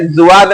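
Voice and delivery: "जुआद" starting with a buzzing z, zu-aad; wrong ज़ुआद. Shown as a demonstration. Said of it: "जुआद नहीं बोलना है". ("जुआद" को "ज़ुआद" जैसा)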